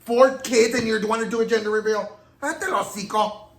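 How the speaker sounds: put-on venting at a fourth-child gender reveal, indignant; mock outrage. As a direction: rant like a scandalised friend.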